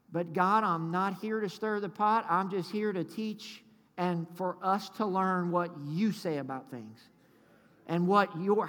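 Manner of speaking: hushed, humble prayer to God; earnest prayer. Real, not acted. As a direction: pray sincerely, softening from the sermon voice. Leads a prayer before preaching.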